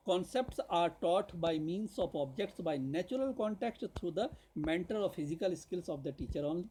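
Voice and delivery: slow, deliberate reading of a syllabus point; dictation reading. Acted. Teacher reads a syllabus point to students, slow dictation. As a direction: read it out slowly as if for notes.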